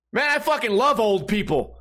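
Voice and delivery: mock-yell it with gusto, imitating a tactless friend; imitated yell. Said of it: "you just yell".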